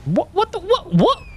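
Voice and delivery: high, startled "what, what"; surprised. Real, not acted. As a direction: blurt it out in disbelief. Sudden shock at something on stream.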